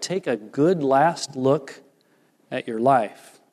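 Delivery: slow and grave, letting it sink in; sober, slow echo of God's words; slow, solemn repeat. Shown as a demonstration. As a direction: say it slowly so the weight lands. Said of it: "Wow, that had to really pound Moses hard".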